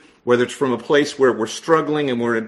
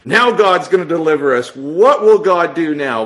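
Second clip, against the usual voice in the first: mock pious praise; 3 semitones higher, 5 dB louder than usual. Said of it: "that's not what it says in my Bible".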